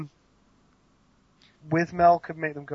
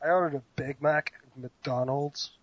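softer, attempted American accent; 6 dB quieter than usual. Guest repeats the host's fast-food line, American accent. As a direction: have a go at sounding American. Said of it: "See, that was better".

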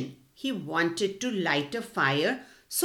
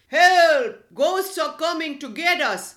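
higher, loud scared cry for help; frightened shout; 6 semitones higher, 6 dB louder than usual. A narrator's reading. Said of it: "started shouting in fear".

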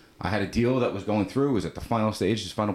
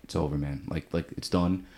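broken, defeated; 4 semitones lower, 4 dB quieter than usual. Retold or imitated. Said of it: "he was broken".

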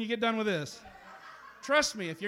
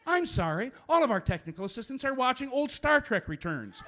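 phone menu voice. Acted. Poet voices automated phone menu.

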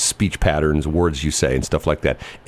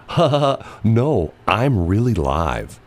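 fake robocall laugh; 3 semitones higher, slower than usual. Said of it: "there's like".

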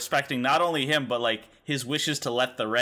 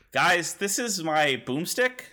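slow, higher hammed-up hero brag; bad acting; 6 semitones higher, slower than usual. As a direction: ham up the boast slowly. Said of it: "no one could deliver it like him".

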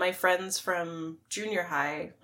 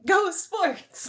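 mock sports cheer; 10 semitones higher than usual. Joking along with sports cheer.

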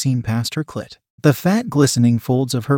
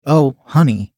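a louder squeal, as if in pain; read-aloud squeal, louder than the narration; 5 dB louder than usual. A narrator's reading. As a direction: let it out as a sharp squeal. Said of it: "Beth squealed as if in pain".

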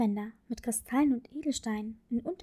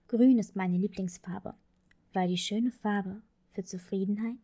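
tender father; 3 semitones lower than usual. Acted. Father's tender bedtime answer.

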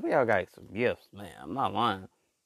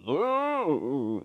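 long, drawn-out spooky "ooh"; mock-menacing alien wail; 3 semitones higher than usual. Voices bad aliens coming to scare.

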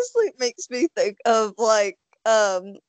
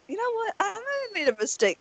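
mock Aaron; 10 semitones higher, 4 dB quieter than usual. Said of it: "and Aaron said".

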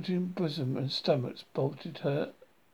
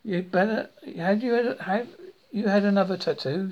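higher, louder excited greeting; excited mum greeting; 4 semitones higher, 5 dB louder than usual. A narrator's reading. Son greeting his mum in the kitchen, excited and loud. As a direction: gush it out to your mum. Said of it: "she said".

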